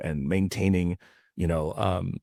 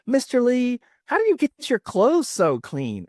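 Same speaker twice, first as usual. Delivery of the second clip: high, slow mock ad-customer voice; commercial customer; 4 dB louder than usual. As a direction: play an impressed customer in an old advert, pitched high. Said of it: "this Caucasian customer comes in".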